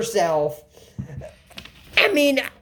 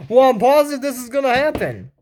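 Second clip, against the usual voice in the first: mock quote. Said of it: "and just say".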